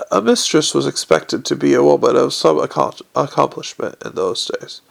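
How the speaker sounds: wistful whisper, half breath; sighing. Acted. Old lady sighing to Moist about her youth, whispered. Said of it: "she sighed".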